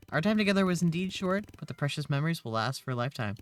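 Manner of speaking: lightly hammed-up farewell to a dear departed; mock eulogy. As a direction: deliver it like a mock funeral tribute. Acted mourning of a wrecked car.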